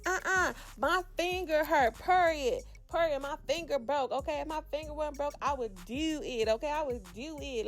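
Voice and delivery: mock Baltimore accent, pitched a bit high; playful take on a Baltimore accent; imitated Baltimore accent. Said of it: "Baltimore accent".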